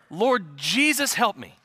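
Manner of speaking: half-laughing, slow plea to heaven; amused mock desperation; laughing mock prayer. Real, not acted. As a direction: laugh it out as a mock cry for help. Laughing plea over teenage daughter.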